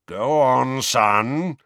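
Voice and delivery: loud, pressing father; impatient urging. Acted. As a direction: push the boy to speak, hard. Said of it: "moustache blowing about furiously".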